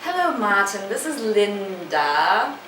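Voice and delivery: British sketch-show character voice, last word drawn out. Acted. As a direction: put on a slow British comedy accent. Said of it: "copy, like, a character, maybe from Little Britain".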